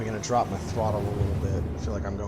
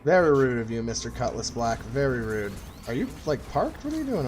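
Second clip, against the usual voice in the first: mock indignant; 3 semitones higher, 6 dB louder than usual. Real, not acted. Mock scolding enemy ship.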